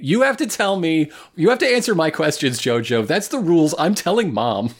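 put-on bratty playground kid voice; whiny tattling little sibling. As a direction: tattle like a spoiled child. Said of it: "starts acting like a shitty kid on the playground".

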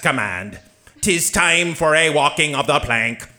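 gruff pirate robot. Acted. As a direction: growl it like an old sea pirate.

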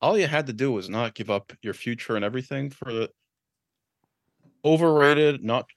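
Vince McMahon voice. Retold or imitated. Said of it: "I'm doing the Vince McMahon".

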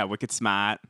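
echoed Boston-accent catchphrase. Shown as a demonstration. Host echoing his co-host, Boston accent. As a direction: toss it back in a Boston accent. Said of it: "Boston is supposed to be easy".

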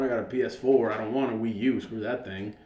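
usual speaking voice

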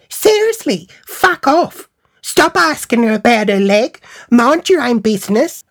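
high-pitched, indignant telling-off; mock outraged friend; imitated angry friend. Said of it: "she was talking to me like that".

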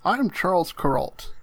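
slow, lightly done newsman voice; a hint of a calm TV anchor; Charles Kuralt impression. Introduced on the podcast, slow mock newsman. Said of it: "Not the time for an impression".

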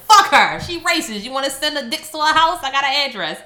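hammed-up indignant rant, punched at the start; mock outrage. Retelling an online commenter's attack to cohosts, mock outrage.

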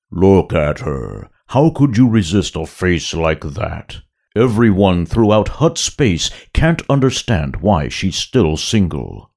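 big booming Hutt voice; Jabba voice. Acted. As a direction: rumble like a giant slug boss. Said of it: "a deep second sound".

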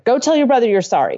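a stern order to apologize, lightly acted; a hint of a stern parent's command; bossy parent, only lightly voiced; mock demanding parent. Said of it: "demand he go apologize".

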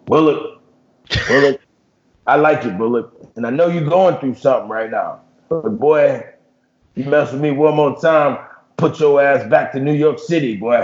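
mild imitation of a coach's warning; a hint of a tough coach scolding a player; Coach O impression. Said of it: "That was a good impression".

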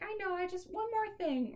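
high, pleading customer voice. Retold or imitated. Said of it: "And she's like".

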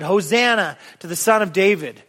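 building to a high ringing cry; crowd shouting. Acted. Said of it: "they shouted".

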